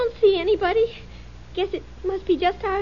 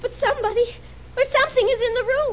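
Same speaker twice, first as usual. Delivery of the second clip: frightened; 6 semitones higher, much faster than usual. Real, not acted. Wife frightened in dark room.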